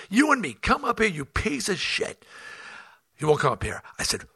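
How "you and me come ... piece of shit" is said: shouted challenge. Retold or imitated. Challenging heckler to come on stage.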